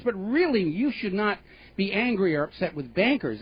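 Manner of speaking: a hammed-up smug banker; mocking banker. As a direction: parody the banker's self-praise. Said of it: "who's basically going on and saying".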